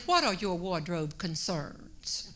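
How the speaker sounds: slow, imitated New York accent; measured take-off of a New York accent. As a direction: lightly mimic a New Yorker's accent, taking it slowly. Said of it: "And in her accent, she said".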